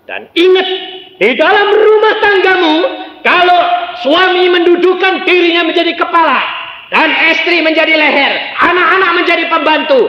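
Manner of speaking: high, loud, ringing pulpit exhortation; loud fiery sermon delivery; preaching at full force. Acted. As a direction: proclaim it to the whole church.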